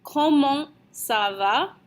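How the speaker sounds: "Comment ça va?" slowly, rising at the end; teacher's careful French question; slow model pronunciation. Shown as a demonstration. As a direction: lift "va" into a question after a measured "Comment". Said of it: "and we say".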